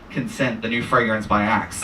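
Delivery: sultry perfume ad. Pretend. Parody perfume ad tagline.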